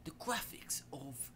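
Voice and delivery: a light attempt at a British accent. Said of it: "I can't do British accent".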